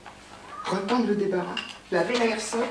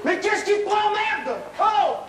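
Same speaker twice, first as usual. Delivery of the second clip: angry outburst; 8 semitones higher, slower than usual. Acted. He loses patience with Antoine.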